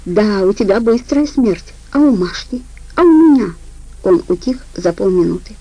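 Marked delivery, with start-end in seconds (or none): 0.1-3.5 rising fury. Acted. Лида в ярости над убитым.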